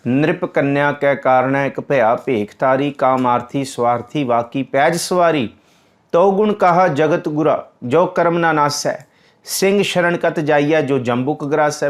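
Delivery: measured, devout hymn recital; scripture recitation. Acted. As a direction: intone the verses with reverence.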